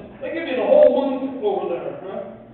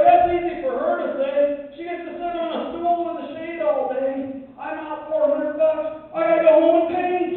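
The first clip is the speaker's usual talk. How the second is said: higher indignant grumbling to himself; indignant rant; 9 semitones higher than usual. Retold or imitated. Walking to his truck, griping about the clerk, higher-pitched and indignant. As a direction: complain under your breath with rising outrage. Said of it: "I'm like".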